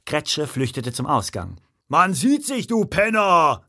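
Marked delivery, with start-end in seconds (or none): 1.9-3.6 raised, higher angry yell; loud, high-pitched parting shout; bellowed threat. A narrator's reading. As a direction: bellow it after someone fleeing. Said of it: "brüllte der Riesenbrustkasten ihm hinterher".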